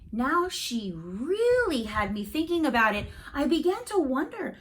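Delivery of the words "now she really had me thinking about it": hushed, breathy aside; worried whisper. A narrator's reading. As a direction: whisper it like a secret worry. Narrator's worry whispered.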